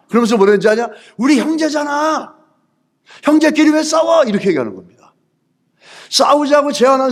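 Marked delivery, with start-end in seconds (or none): 1.2-4.2 mock pleading. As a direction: plead in a raised, stretched voice. Acted plea to a brother.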